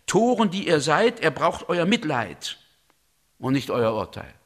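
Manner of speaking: a hint of a stern prophet rebuking fools; stern rebuke. Reads Elihu rebuking the accusers. (Elihu weist die Ankläger leicht gespielt streng zurecht)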